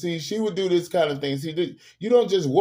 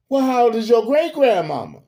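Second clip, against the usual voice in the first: high, loud mock disbelief; loud raised question, dropping at the end; Madea questioning; 9 semitones higher, 7 dB louder than usual. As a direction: act out Madea's incredulous last question. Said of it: "when she asked the little girl".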